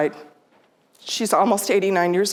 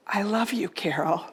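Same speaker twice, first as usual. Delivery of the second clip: retold whisper; 6 dB quieter than usual. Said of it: "she whispers in my ear".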